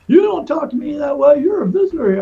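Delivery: high, loud mock yelling; imitated screaming guard. Other guard telling a visitor off, retold yelling. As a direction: scold like an outraged guard. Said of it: "the other guard was screaming and yelling at me".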